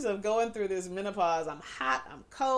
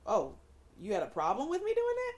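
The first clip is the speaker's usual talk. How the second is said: mock oblivious partner; 7 semitones higher than usual.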